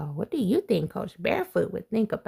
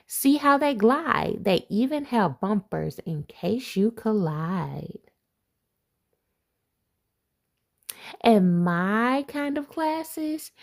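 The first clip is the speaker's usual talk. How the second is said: lively picture-book read-aloud; reading to children; 3 dB louder than usual. Acted. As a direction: read it like a bedtime rhyme to kids. Reads rhyming picture book aloud.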